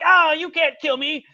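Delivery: high, hammed-up indignation; mock outrage, drawn out; affronted villain. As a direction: protest like an offended cartoon villain. Acted villain interrupted mid monologue.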